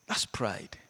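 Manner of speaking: hushed, breathy aside; whisper. Real, not acted. Preacher to the congregation, a whispered aside. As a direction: lean in and breathe it.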